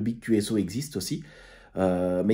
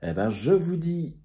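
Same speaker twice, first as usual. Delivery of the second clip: much higher, louder goodbye to friends; cheery farewell; 6 semitones higher, 3 dB louder than usual. Real, not acted. Vlogger waving off friends from Le Mans, cheery and high. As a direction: call out a bright goodbye to the crew.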